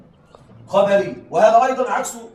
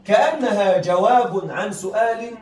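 very slow, drawn-out phrase; slow emphasis; 5 dB louder, much slower than usual. Shown as a demonstration. Teacher to students stressing the key rule, very slow. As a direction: stretch each word to drive the rule home.

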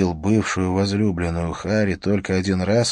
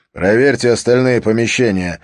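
breaking voice; 3 semitones higher, 5 dB louder than usual. Acted. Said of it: "приказал Харри срывающимся голосом".

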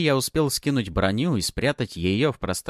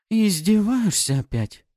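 indignant sprite; 12 semitones higher, 4 dB louder, slower than usual. Acted. Pafi complains.

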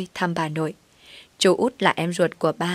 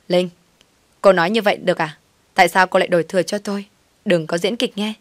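louder, rapid indignant confrontation; angry retort; 4 dB louder, faster than usual. Acted. Hiền accuses Linh of faking, in a fast, louder angry rebuke. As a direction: snap back at her, fast and heated.

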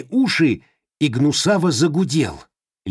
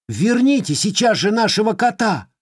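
commanding; 11 semitones higher than usual. Acted. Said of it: "приказал Вовка".

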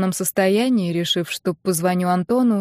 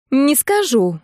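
stubborn higher "не скажу", falling on скажу; stubborn refusal; 5 semitones higher, slower than usual. Acted. Friend refusing to name her groom, stubborn and higher. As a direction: dig in, refuse flatly. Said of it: "заупрямилась Нина".

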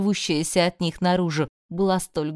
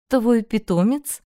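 high, slow, louder surprised question; 4 semitones higher, 5 dB louder, slower than usual. A narrator's reading. Elion asks the heroine about her pet, surprised. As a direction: ask it in open surprise. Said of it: "удивлённо уточнила Элион".

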